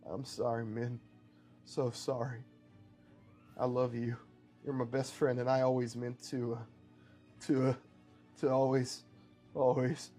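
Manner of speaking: halting, weakening dying apology; understated tenderness, trailing into broken phrases; fading last words. Acted. Dying man tells best friend he loves her, fading. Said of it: "He fades off as his breathing becomes labored".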